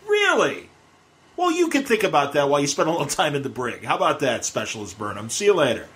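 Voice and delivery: lightly acted dressing-down, dismissing a subordinate; captain's sarcastic rebuke. Captain sending an insubordinate officer to the brig, sarcastic rebuke. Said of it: "what kind of captain".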